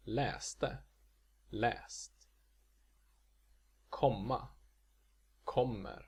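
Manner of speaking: läsa, läste, komma, katter double-peaked, läser, kommer, katten single-peaked; shifting Swedish pitch accents. Shown as a demonstration. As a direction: alternate accent two on läsa with accent one on läser, word by word. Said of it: "the accent might change within a single paradigm".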